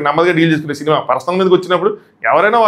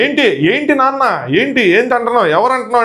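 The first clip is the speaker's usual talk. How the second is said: raging retort; 6 semitones higher than usual. Retold or imitated. Divya retold snapping at Madhuri, high mock rage. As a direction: fire the questions back, pitched up. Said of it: "దివ్య అంటే రేజ్ అయిపోద్ది".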